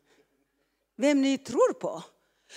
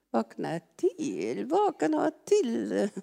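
drawn-out call; slower than usual. Shown as a demonstration.

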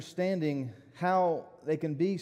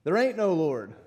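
retold angry shout; 3 semitones higher, 7 dB louder than usual. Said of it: "he would shout in response".

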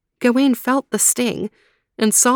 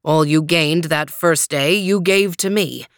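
low, steady giant knight; calm knight voice; 3 semitones lower than usual. Acted. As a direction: settle him with calm terms. Green Knight speaks.

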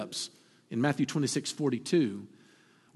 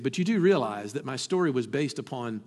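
calmly; 5 semitones lower than usual. Retold or imitated. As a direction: answer with calm, steady certainty. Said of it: "she very calmly looked at him and said".

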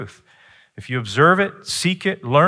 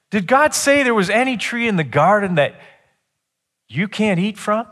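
higher, stressed sly question; distorted emphasis; 10 semitones higher, 4 dB louder than usual. Retold or imitated. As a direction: twist the words with emphasis. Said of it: "So he changed the emphasis".

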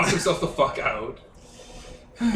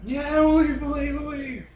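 high, pleading wail; panicked agreement; 11 semitones higher than usual. Acted. Game master as terrified victim answering a threat, panicked agreement. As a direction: agree desperately in a high whimpering voice.

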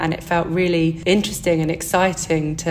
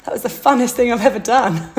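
higher, bright gush of delight; excited; 6 semitones higher, 3 dB louder than usual. Retold or imitated. Student recalling her dissertation, gushing excitedly. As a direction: gush about it like it was a treat. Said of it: "And I was like".

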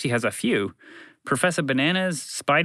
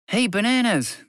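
higher heroic shout; taunting hero shout; hero's call; 6 semitones higher than usual. A narrator's reading. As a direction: call out to the villain. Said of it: "the Caped Cod shouted".

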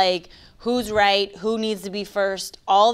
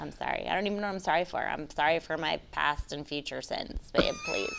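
soft, low mock apology; hushed, hammed-up begging for forgiveness; mock pleading apology; 5 semitones lower, 11 dB quieter, faster than usual. Wife pretends to apologize to husband over laundry, mock pleading.

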